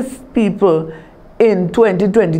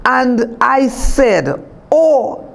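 passionate scripture reading. Shown as a demonstration. Minister reading Psalm fifty-five to her congregation, impassioned. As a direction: lean into each plea as if it were your own prayer. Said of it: "let us read it with such passion".

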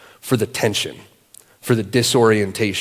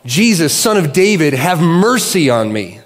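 higher, half-hearted beggar's cry; mild retold yell; 4 semitones higher than usual. Blind beggar calls out to Jesus from the roadside, mild mock yell. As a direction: call it out like a beggar by the road, but only mildly. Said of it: "he yells out".

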